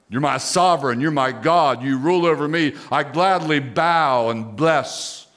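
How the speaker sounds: firm, unquestioning avowal to God; emphatic declaration. Shown as a demonstration. Preacher models a believer's avowal to the Lord, emphatic. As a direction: declare it emphatically, slowing on key words. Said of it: "be able to say it emphatically, unquestionably".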